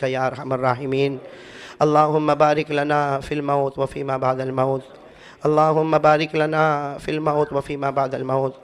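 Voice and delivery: slow, low, measured supplication; prayer recitation. Real, not acted. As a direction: recite the dua slowly and humbly.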